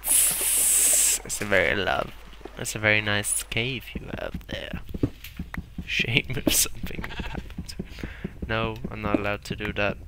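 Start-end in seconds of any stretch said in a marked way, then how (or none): 2.6-8.5 a light, hushed mobster menace; mock gangster threat. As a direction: threaten sweetly like a racketeer. Mock mafia threat to a cave.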